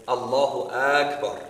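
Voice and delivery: long first A in "Akbar"; slow "Allahu Akbar" with a lengthened Aa starting "Akbar"; elongated second word. Shown as a demonstration. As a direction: stretch the opening vowel of "Akbar", slowly. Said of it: "they'll do it on the second half".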